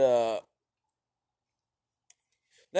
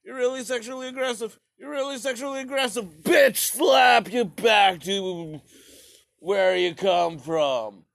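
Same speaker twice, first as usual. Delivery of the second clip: mock prissy Russia; 9 semitones higher than usual. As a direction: squeal it, then drag out the slap line. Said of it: "Russia was just like".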